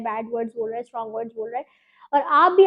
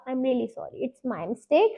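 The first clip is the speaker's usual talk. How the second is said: sincere apology demo; 3 dB quieter, much slower than usual. Shown as a demonstration. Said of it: "वो माफ़ी जो है वो शुरू इस तरह होगी".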